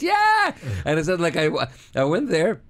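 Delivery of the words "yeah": high shouted mock cheer; imitated roar of an excited crowd. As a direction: whoop like a whole audience.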